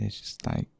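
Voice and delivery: breathy whisper; intimate whisper. Acted. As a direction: barely breathe it out. Tender confession to a lover.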